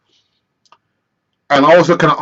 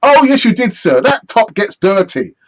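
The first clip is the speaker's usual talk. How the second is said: put-on higher cheeky kid voice; 4 semitones higher than usual. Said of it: "bantered off by an eleven-year-old".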